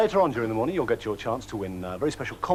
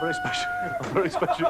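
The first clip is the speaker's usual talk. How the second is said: squeaky high voice. Acted. Presenter cracks up mid-introduction.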